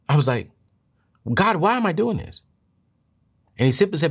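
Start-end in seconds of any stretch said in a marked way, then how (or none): 1.3-2.4 high-pitched questioning plea; retold plea to God. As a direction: ask God why, pitched well up.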